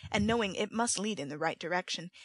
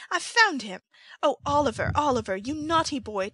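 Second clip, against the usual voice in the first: high, loud, overdone cry of relief; hysterical joy; 6 semitones higher, 6 dB louder than usual. A narrator's reading. Nancy fakes finding her lost brother, shrill with staged joy. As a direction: act the overjoyed sister for the crowd. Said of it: "these incoherent exclamations".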